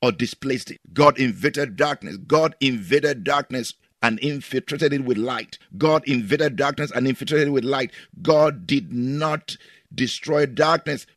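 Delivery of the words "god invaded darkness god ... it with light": emphatic sermon cadence; preaching. Acted. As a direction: preach it with conviction. Preaching with repetition.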